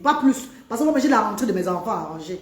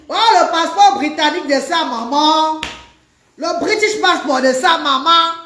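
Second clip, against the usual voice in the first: higher-pitched, playful show-off exclamation; showy boasting; 3 semitones higher than usual. Pretend. Mock boasting about her British passport.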